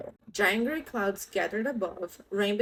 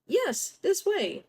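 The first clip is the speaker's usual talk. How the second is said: shark voice; 10 semitones higher, slower than usual. Acted. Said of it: "replied the shark".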